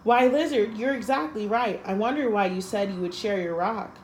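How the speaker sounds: startled admission, mildly played; taken aback. Snake, taken aback, admits Lizard is right, mild surprise. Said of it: "Snake was taken aback".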